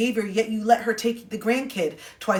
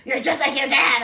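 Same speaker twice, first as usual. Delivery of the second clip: higher, louder mock mom with a groan; exasperated mom; 6 semitones higher, 5 dB louder than usual. Mom complaining she is just like her dad, exasperated. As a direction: groan it out like an annoyed mother. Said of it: "My mom is like".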